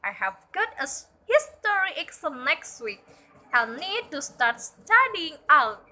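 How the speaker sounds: cheerful role-play of Jane and Helen; acted dialogue voices. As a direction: act out the two friends chatting.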